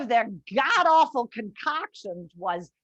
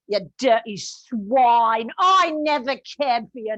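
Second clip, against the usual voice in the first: contemptuous tirade; 3 semitones lower than usual. Acted. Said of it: "he woke up".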